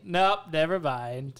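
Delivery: slow, deflated dismissal after excitement; mock letdown. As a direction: drop back down and drag it out. Excitement dashed by the error.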